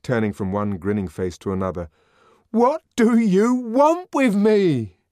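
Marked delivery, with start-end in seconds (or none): 2.5-5.0 high, loud, slow demand, stress on want; repeated desperate question. A narrator's reading. Savage asking the crowd a second time, desperate demand. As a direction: press the question again. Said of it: "he asked".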